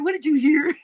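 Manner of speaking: high, laughing, panicky plea to dad; giggling nervous plea; nervous laughing call. Pretend. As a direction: laugh through a nervous question. Repeats imagined call.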